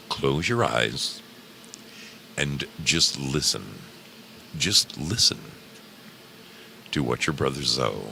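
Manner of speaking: soothing hypnotist patter; right in your ear. Acted.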